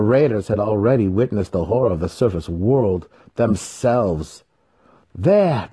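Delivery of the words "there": high, loud sharp call; cried out. A narrator's reading. Tinin spotting the dawn on the horizon, crying out. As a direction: point it out fast. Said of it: "Tinin cried".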